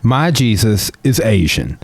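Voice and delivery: high, slow, deliberate retort; mock lecturing. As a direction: spell it out slowly as a mock correction. Acted mock-lecturing reply to people.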